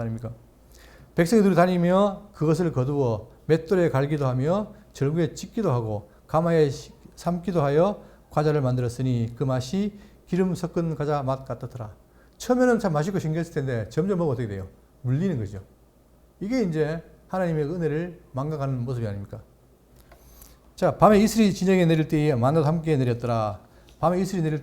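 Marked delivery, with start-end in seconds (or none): 1.1-11.9 measured, solemn Bible reading; scripture reading. Acted. Pastor reading Numbers to the congregation, solemn reading. 20.8-23.6 measured, solemn Bible reading; scripture reading. Acted. Pastor reading Numbers to the congregation, solemn reading.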